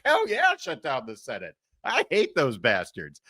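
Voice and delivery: a gleeful lawmaker cheering the Senate's shutdown, mock voice; gleeful House member. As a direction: cheer it like a delighted congressman. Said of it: "all the members of the House are like".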